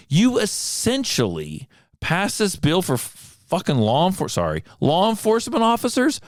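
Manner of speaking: high, outraged disbelief; exasperated outburst. Retold or imitated. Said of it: "that's what I was screaming in my head".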